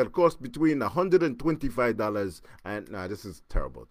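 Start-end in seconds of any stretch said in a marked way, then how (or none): 0.0-2.4 hammy attempt at a Russian accent; bad Russian accent. Shown as a demonstration. Caller imitating the locksmith's price quote, bad Russian accent. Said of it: "try a really bad Russian accent".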